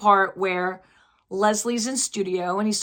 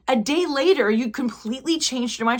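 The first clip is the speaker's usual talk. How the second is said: higher-pitched mock disbelief; imitating a wronged woman confronting him; retold indignant accusation; 4 semitones higher than usual. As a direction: act out her indignation at being dropped.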